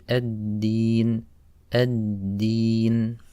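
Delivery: ad-Din, dal with no puff of air, slow; ad-Din with clean dal. Shown as a demonstration. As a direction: hold back any air on the d of ad-Din. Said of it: "we don't want any air to come out".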